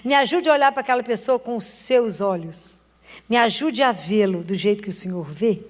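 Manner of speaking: quiet prayer. Retold or imitated. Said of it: "a gente fala com Jesus".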